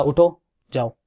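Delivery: casual, familiar instruction; friendly order. Shown as a demonstration. Telling a friend to get up and go, casually friendly. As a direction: tell a friend to go, informally. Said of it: "मैंने दोस्ताना रवैया दिखाया".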